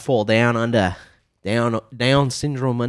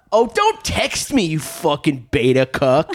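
mock contempt; 3 semitones higher than usual. Mock dismissive reply.

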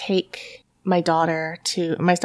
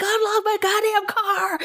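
much higher mock furious yell; retold yelling; 12 semitones higher than usual. Locked-out wife yells at husband, high acted shout. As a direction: escalate the re-enacted shouting match. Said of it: "yelling at my husband".

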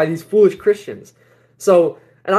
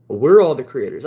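lower-pitched, composed reply; calm retelling; 4 semitones lower than usual. Retold or imitated. Speaker answers a stranger's question about the creator, calmly. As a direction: say it calmly and assuredly. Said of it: "I just said to him calmly".

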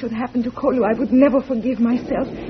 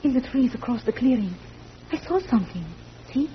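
hushed; 10 dB quieter than usual. Acted. Spotting enemy, hushed warning.

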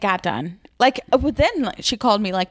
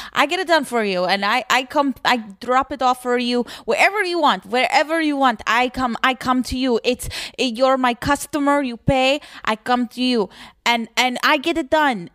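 imitating the tailor's Russian accent, a bit higher; mock Russian accent, pitched up; playful Russian tailor accent; 3 semitones higher than usual. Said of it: "That's a good Russian".

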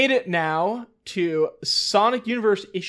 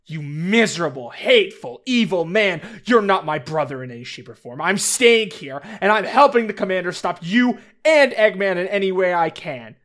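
angry rant; 4 dB louder, faster than usual. Acted. Hope keeps berating Snively.

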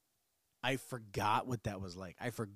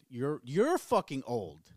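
slow, louder mock outburst; mock yell; 2 semitones higher, 7 dB louder, slower than usual. Snapping back at listeners who call him old, slow mock yell. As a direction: throw it back at the commenters, slow and loud. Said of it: "I did not mean to yell at you".

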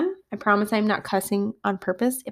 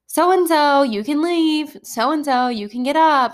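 higher-pitched imitated classmates; insistent kids; 6 semitones higher, 4 dB louder, slower than usual. Girls telling a boy he can leave, insistent. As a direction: call it out like kids prompting a classmate.

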